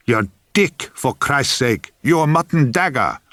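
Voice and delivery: exasperated hiss through the teeth. A narrator's reading. Assistant spelling it out to a baffled actor, exasperated hiss. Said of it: "He hissed through a chink".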